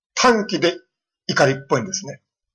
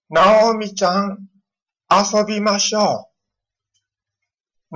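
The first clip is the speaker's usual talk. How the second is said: put-on high, slow sing-song call of a little girl; drawn-out child's call to a friend; 5 semitones higher, slower than usual. Child calling up from downstairs.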